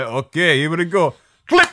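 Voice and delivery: terrible put-on Polish accent, loud and slow. Imagining someone closing a suitcase full of blood; terrible Polish accent. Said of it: "sorry for my terrible Polish accent".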